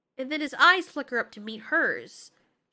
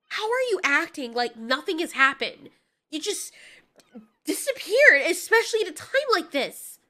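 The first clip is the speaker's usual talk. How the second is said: incredulous scolding with punched words; exasperated confrontation; 2 semitones higher, 6 dB louder than usual. Acted. Mothra confronts Godzilla over vanishing, exasperated. Acted confrontation after he disappeared.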